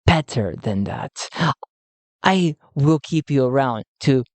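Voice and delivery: a hint of a smug villain; Vicente's new voice. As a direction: scheme aloud, smug. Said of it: "I'm changing his voice".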